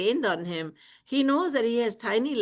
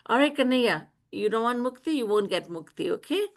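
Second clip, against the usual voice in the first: higher-pitched placating mother; retold pacifying; 4 semitones higher, faster than usual. Mother pacifies her crying son, mild imitated placating. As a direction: soothe a child by giving in, ending on a lifted question. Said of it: "Maya then pacifies him, saying".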